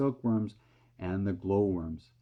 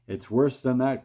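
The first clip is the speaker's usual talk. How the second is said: cried; 4 semitones higher, 6 dB louder than usual. A narrator's reading. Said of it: "cried the chief of police".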